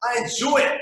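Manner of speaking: lampoon a jaded listener; high whiny mock lament; whiny cynic. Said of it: "you're like".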